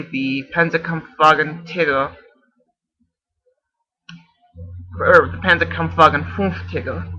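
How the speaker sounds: Tiger said the German way, like "Tigger"; German pronunciation. Shown as a demonstration. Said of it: "how you say tiger in German".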